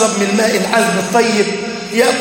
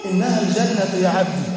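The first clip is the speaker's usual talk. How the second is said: low, soft answer from above; hushed, lower voice of the Lord; gentle divine reply; 3 semitones lower, 5 dB quieter than usual. Acted.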